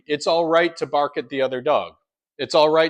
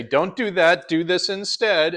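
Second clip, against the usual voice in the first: calm, firm correction, last words slow; firm but fair; 5 semitones higher, 3 dB louder, slower than usual. Shown as a demonstration. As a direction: set a clear boundary calmly. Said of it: "disagree with that in a fair way".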